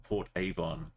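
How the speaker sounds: Port Avon said in a plummy upper-class voice; lightly posh Port Avon. Shown as a demonstration. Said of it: "in a very posh voice".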